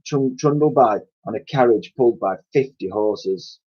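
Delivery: lively read-aloud storytelling voice; story narration. A narrator's reading. Teacher reads novel aloud.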